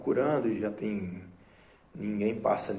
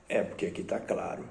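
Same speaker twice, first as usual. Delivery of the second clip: put-on drunk mumbling; 3 dB quieter, faster than usual. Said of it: "porque o Zé tá bêbado".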